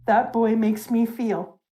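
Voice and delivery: measured, lightly acted story reading; reflective old Rayleigh. Recapping Rayleigh's musing on Luffy and fate, reflective. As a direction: weigh each phrase, slowing at the ends.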